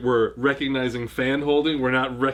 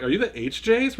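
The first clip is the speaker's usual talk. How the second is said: mock fan question; 9 semitones higher than usual. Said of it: "They're like".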